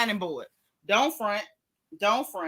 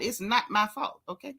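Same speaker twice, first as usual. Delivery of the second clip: mock whine; 6 dB quieter than usual. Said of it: "that song Megan Thee Stallion".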